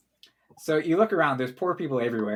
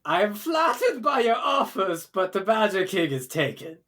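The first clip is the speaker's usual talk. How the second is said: mad king voice; 5 semitones higher than usual. Acted. Badger King refuses a proposal.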